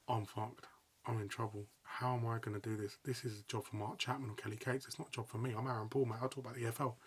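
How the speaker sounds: talking yourself down in dread; quiet stunned panic; inner panic. Retold or imitated. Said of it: "And I'm like".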